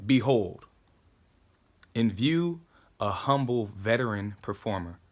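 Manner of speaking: slow, emphatic paraphrase with pauses; measured explanatory monologue; deliberate recitation. Acted. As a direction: declaim it piece by piece, leaning on key words.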